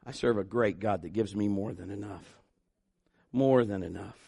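very soft, intimate testimony; soft preaching. Acted. Quiet preaching close.

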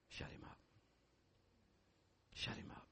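urgent whisper, soft and intense; whispered command. Acted. Pastor urging congregation quietly, whispered command. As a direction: breathe the command, hushed.

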